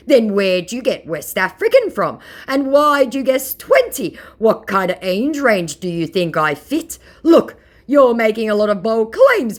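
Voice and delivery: indignant mock scammer. Mocking the scammer's complaint, high whiny mock voice. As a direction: sound put-out and whiny.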